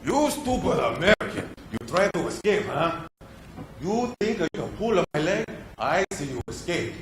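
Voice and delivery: put-on sneering movie-villain voice with a heavy Asian accent; hammed-up accented guard taunting the American; stereotyped Asian accent villain. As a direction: play the cartoon Asian captor in a thick accent. Actor shows the demanded accent role.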